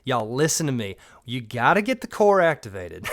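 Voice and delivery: a light Georgia Southern twang; Southern accent. Shown as a demonstration. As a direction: lean into the Southern accent, teasing. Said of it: "maybe I should bring it out more for the channel".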